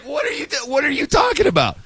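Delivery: can't believe what you're reading; high-pitched what-on-earth reaction; incredulous. Retold or imitated. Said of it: "I'm like".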